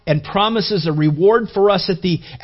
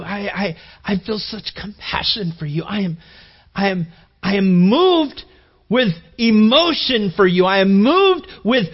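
acted outpouring of mercy, growing more forceful; heartfelt compassion. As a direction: start tender, swell on being moved. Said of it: "That's the mercy".

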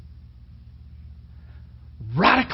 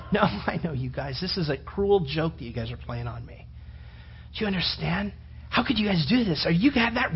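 hurt accusation; 7 dB quieter than usual. Acted. Thomas accuses friends of a joke.

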